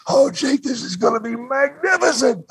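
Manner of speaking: high, excited promoter gushing; gushing boss. Retold or imitated. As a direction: gush like a thrilled boss. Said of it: "Vince grabs me and hugs me".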